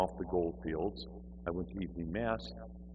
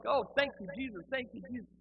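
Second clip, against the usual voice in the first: very high imitated worshipper chant; mock congregation in rapture, pitched way up; fervent praise. Everybody around him praising Jesus, in high fervour.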